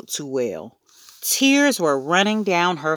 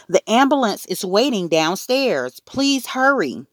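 raised, urgent wail, climbing high; 6 semitones higher than usual. A narrator's reading. Mother urging Henry to hurry the elevator, wailing. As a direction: plead urgently, pitch rising on the last words. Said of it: "Mom wailed".

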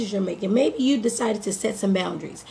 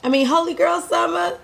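hyping herself; 4 semitones higher than usual. Retold or imitated. Hyping herself up with positive talk.

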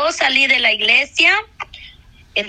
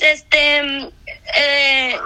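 tears catching the words as she remembers; crying. Real, not acted. Woman breaking into tears while testifying to the congregation, crying. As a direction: voice breaking into a sob mid-sentence.

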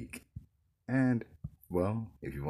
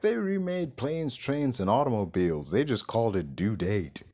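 excited; 2 semitones higher, 4 dB louder than usual. Real, not acted. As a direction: build the hype. Excited rant about remakes.

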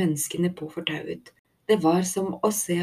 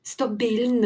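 high-pitched, urgent call; urgent shout; 6 semitones higher than usual. A narrator's reading. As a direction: call out in alarm. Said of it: "ropte Thelma". (ivrig, engstelig rop)

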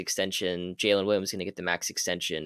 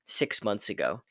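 Southern Tibbs. Retold or imitated. Imitating coach Tibbs scolding a player, a hint of Southern accent. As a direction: lightly voice Tibbs with a touch of Southern accent, grumbling. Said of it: "I don't know why Tibbs got Southern".

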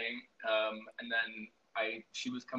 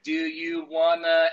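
mock offer; 4 semitones higher, 13 dB louder, slower than usual. Retold offer, slow and loud.

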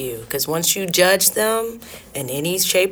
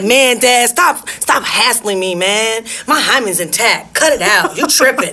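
put-on casual annoyed teen; 2 semitones higher, slower than usual. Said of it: "She's not saying it like that".

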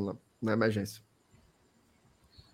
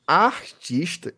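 very slow, stretched-out word; drawn-out emphasis; much slower than usual. Real, not acted. Host echoing his colleague's praise of the singer, drawn out. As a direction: stretch every syllable for emphasis.

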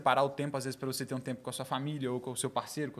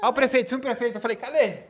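mock surprise; 9 semitones higher, 9 dB louder, faster than usual. Retelling his surprise at the mayor.

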